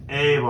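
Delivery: put-on "a boy" said as "ay b'y"; Newfoundland pronunciation. Shown as a demonstration. Host teaching the crowd, "a boy" as Newfoundland "ay b'y". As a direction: say "a boy" like "ay bye". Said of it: "It's "a boy".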